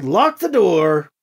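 drawn-out called order; calling out. Acted. Alibi warning Krish of troopers, calling out. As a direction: call the order across the room. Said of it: "Alibi called".

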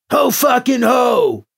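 loud, high, drawn-out angry bark; slow, sarcastic shout. A narrator's reading. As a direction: bark it like a furious prisoner. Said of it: "Finder barked at her".

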